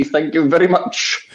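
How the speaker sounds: tip into a lazy singer's thank-you; impression of a famous singer. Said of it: "a famous singer".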